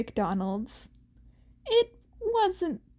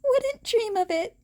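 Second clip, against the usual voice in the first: put-on higher teen voice with a grin; grinning; 11 semitones higher, 3 dB louder than usual. A narrator's reading. Izuku answering Aizawa's hint, grinning. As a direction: tease back with a smile.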